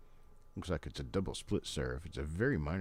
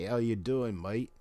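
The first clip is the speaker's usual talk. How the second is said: Crocodile Dundee; 7 semitones higher, 5 dB louder than usual. Retold or imitated. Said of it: "That's my best, uh, Crocodile Dundee".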